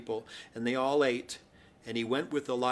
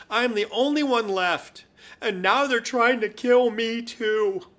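higher, mock-plaintive prophet; self-pitying complaint; 5 semitones higher than usual. Elijah pleading his case to the Lord, higher and self-pitying. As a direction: whine it up like a wounded hero.

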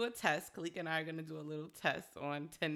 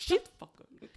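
mock threat; 12 semitones higher, 9 dB louder, much faster than usual. Joining the acted threat.

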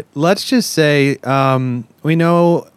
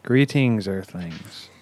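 deep, distant alien greeting; 6 semitones lower, 8 dB quieter, slower than usual. Pretend. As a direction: intone it like a spaceman.

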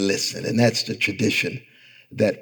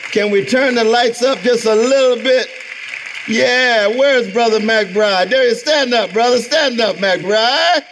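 high, loud call across the hall; 12 semitones higher, 5 dB louder than usual. Real, not acted. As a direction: call him out to the crowd. Calling out to the audience.

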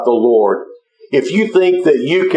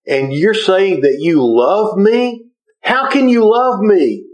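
incredulous; 4 semitones higher than usual. Retold or imitated. Mike, bleeding man's love baffles him.

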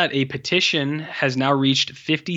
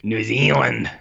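New Zealand accent; slower than usual. Shown as a demonstration.

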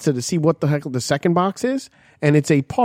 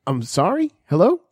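phone greeting; 2 semitones higher than usual. Retold or imitated. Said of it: "as if I was answering the phone".

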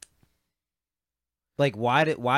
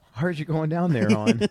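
higher Baltimore local voice; Baltimore accent; 6 semitones higher, 4 dB louder than usual. Acted. Local chatting to the stranded American, Baltimore accent. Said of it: "Baltimore accent".

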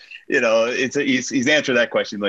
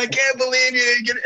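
imitating wife; 12 semitones higher than usual. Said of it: "And she's like".

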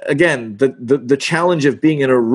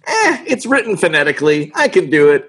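breezy overconfidence; 4 semitones higher than usual. Retold or imitated. Acts out own early overconfidence.

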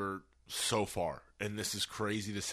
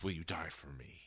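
low Joker quote; 5 semitones lower, 9 dB quieter than usual. Retold or imitated. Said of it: "And he's like".

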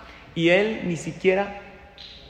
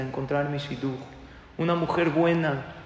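retold tearful plea; 4 semitones higher, 6 dB louder than usual. Young man begging God for a good wife, earnest building plea. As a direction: let the prayer swell into insistent pleading, without real crying. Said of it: "Y así con lágrimas decía".

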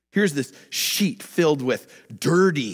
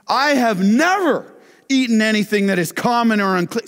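high, loud, indignant devout Jew; 9 semitones higher, 7 dB louder than usual. Retold or imitated. Peter as devout Jew, refusing God's food, indignant. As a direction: protest like a proud devout Jew. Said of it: "here comes the devout Jew".

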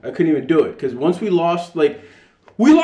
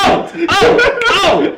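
pained oh; 14 semitones higher, 5 dB louder, much slower than usual. Real, not acted. Pained by reminder.

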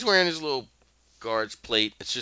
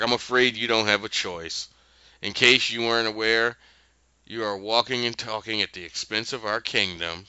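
snotty. Retold or imitated. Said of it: "Just in this snotty".

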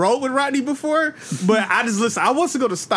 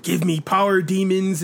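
troll voice; 4 semitones lower, slower than usual. Retold or imitated. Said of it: "can I hear your troll voice again".

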